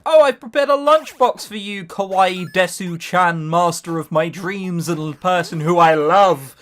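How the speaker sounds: put-on slow, sugary anime girl; anime schoolgirl voice. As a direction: gush it like a lovesick anime heroine. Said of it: "like, the Japanese thing".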